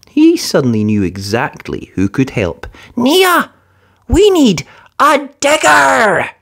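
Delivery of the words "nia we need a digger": high, loud, urgent; stuck engine calling. Acted. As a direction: call her over in a hurry. Thomas calls for help.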